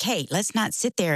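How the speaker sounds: ordinary talk, nothing marked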